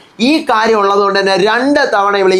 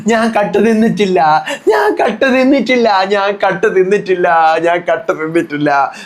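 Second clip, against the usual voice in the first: wailing denial. Retold or imitated. Anu crying out denial repeatedly.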